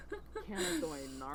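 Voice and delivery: quiet little chuckle; soft laugh. Real, not acted. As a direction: chuckle under your breath. Amused while narrating her game.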